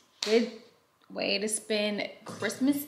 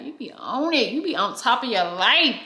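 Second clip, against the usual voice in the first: mouth full; 3 semitones higher, 4 dB louder than usual. Real, not acted. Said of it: "didn't see me chew my food".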